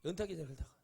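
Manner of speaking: hushed confidential whisper. Real, not acted. Pastor confiding to the congregation, in a whisper. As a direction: let them in on a secret, breathless.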